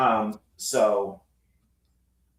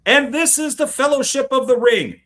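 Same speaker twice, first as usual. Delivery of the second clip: announcer voice; 12 semitones higher, 7 dB louder than usual. Retold or imitated. Mock announcer on disc break.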